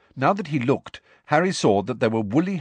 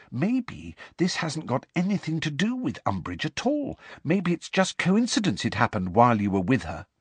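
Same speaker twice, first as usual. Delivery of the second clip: lightly voiced young girl; 6 semitones higher than usual. Hermione voiced by narrator.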